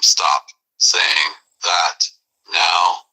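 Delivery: very slow whispered threat; enraged. Acted. Enraged man warning in a very slow whisper. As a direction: drag every word, simmering. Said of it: "absolutely enraged".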